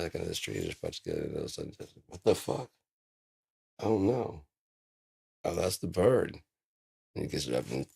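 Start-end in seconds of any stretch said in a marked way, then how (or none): 2.1-6.4 higher, louder startled gasp of words; startled disbelief. Retold or imitated. Startled by the bird dropping from the tree, higher and louder. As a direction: caught off guard by the bird. Voicing himself spotting bird.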